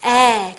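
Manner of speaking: "에" as the open apple vowel, jaw dropped; wide open vowel. Shown as a demonstration. Teacher modelling the apple vowel, "에" wide and open. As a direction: stretch "에" wide sideways with the jaw down. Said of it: "옆으로도 찢어지고 아래도 턱이 딱 내려가는 소리".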